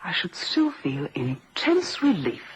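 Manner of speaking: slow, weighted confession of feeling; slow, emphatic avowal; deliberate admission. Acted. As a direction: spell it out slowly and pointedly. Suspect admits hatred of victim.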